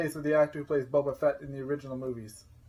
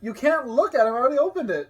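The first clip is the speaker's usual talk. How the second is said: laughing; 9 semitones higher, 6 dB louder than usual. Real, not acted. Teasing reply, laughing.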